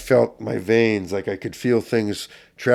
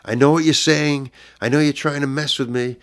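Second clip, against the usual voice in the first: screaming out the door; 6 semitones higher than usual. Retold or imitated. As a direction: yell it through the door at people you think are plotting. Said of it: "And I screamed out the door".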